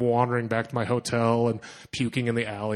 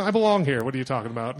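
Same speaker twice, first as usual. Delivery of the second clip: fake confidence; faster than usual. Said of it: "I pretend".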